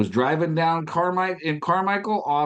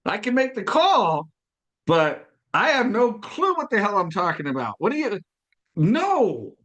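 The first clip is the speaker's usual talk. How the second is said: mock panic; 6 semitones higher than usual. Telling his mentor he can't make calls, mock panic. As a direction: panic about having to call.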